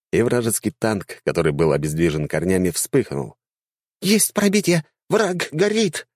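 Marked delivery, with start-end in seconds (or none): 4.0-6.1 high squeaky cheer; gleeful. A narrator's reading. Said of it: "радовалась наводчица".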